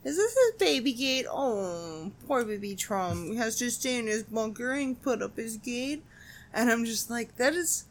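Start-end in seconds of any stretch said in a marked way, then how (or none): 0.0-6.0 put-on baby voice. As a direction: coo it like talking to a baby. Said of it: "stop doing that voice".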